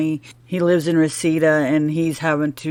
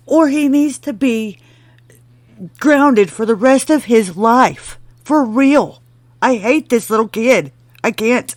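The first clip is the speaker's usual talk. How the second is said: a heated rant, pitched up and loud; worked up rant; 5 semitones higher, 4 dB louder than usual. Real, not acted. Worked up about the kid.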